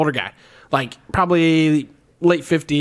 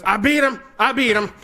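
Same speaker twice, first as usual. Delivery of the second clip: put-on high, gloating drunk old guy; 7 semitones higher than usual. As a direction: crow about the win, pitched up. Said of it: "he goes".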